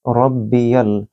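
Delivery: रब्बियल with a thick, full र; full heavy r. Shown as a demonstration. Teacher isolating the word for students, heavy r. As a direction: open रब्बियल with a heavy rolled र. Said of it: "यहाँ रॉ को पुर पढ़ा जाएगा मोटा".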